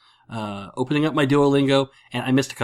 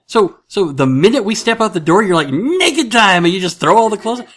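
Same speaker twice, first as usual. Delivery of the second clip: mock interrogation; 9 semitones higher, 8 dB louder than usual. Family teasing grandma, mock interrogation.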